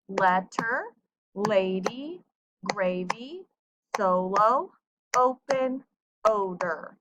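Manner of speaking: "pencil", "magnet", "publish" beat out syllable by syllable; clapped-out syllables. Shown as a demonstration. Teacher clapping out words like "solo" for pupils, syllable by syllable. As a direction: sound out each word like "pencil" in two distinct beats. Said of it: "If we clap them out".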